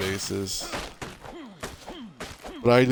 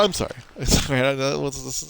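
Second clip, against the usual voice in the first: laughing apology; 4 semitones higher, 5 dB louder than usual. Real, not acted. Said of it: "I don't know why I laugh so much".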